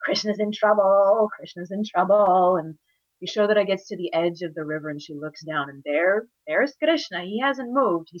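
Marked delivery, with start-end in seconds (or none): 0.0-2.6 slow, drawn-out tattletale refrain; gleeful taunt. Acted. Boy dancing behind mother, gleefully taunting. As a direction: relish each repeat. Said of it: "he's so sure this is it".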